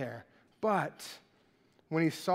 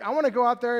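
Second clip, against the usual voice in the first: louder, higher, pleading eagerness; eager Peter; 4 semitones higher, 7 dB louder, much faster than usual. Retold or imitated. Peter pleading with Jesus, loud and eager. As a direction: beg to go out there. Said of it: "Peter's like".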